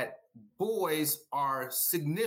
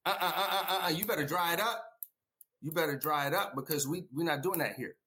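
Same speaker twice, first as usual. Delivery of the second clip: mock-stern father telling boy to stop crying; father scolding his son to stop crying; stern dismissal; faster than usual. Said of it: "Or do we tell our boys".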